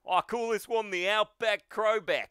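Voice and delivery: high Australian hero call; attack announcement. Acted. All Might naming his finishing move, heroic call. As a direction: announce the special move in broad Aussie.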